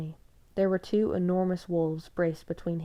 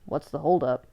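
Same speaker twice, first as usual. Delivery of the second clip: a mocking, defensive jab, louder; 2 semitones lower, 6 dB louder than usual. A narrator's reading. Jacob taunts Bella about delay, mocking edge. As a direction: needle her with a mocking edge. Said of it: "took on a defensive, mocking edge".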